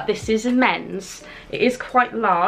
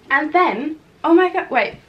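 surprised gasp; 7 semitones higher, 3 dB louder than usual. Real, not acted. Spots a surprise item in haul.

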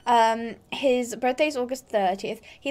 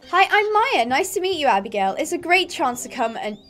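first try at Maya; 3 semitones higher than usual. Acted. Stable girl greeting a new rider, lightly voiced character. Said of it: "I'm gonna do voices for the characters".

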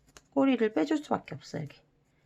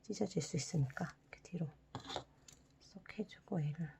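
whisper; 9 dB quieter than usual. Real, not acted. Careful tip while folding.

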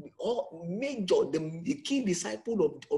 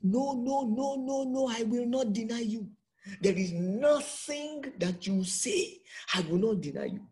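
insistent denial; 5 semitones higher than usual. Acted. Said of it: "He said".

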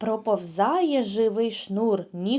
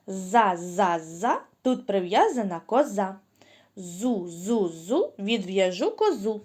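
put-on rhythmic chant for children; sing-song chant to be repeated; tongue-twister demo; slower than usual. Shown as a demonstration. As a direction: clear chanting rhyme for kids. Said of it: "Спочатку послухайте".

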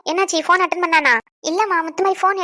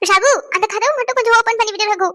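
higher-pitched call across the house; 5 semitones higher than usual. Acted. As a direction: call to Raghu for a favour. Calls to Ragu to open door. (கூப்பிட்டுச் சொல்வது)

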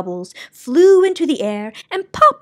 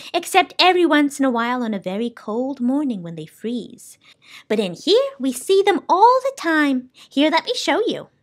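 lively character voice, lifting higher; lightly voiced, animated shopkeeper; soundkeeper, explaining eagerly; 5 semitones higher than usual. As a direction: show off the shop to a visitor.

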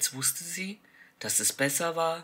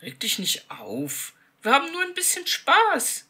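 calm; 10 semitones higher, 6 dB louder than usual. A narrator's reading. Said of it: "erklärte er gelassen".

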